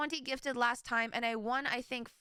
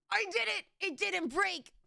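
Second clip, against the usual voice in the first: excited; 7 semitones higher than usual. Real, not acted. Relieved the timer worked.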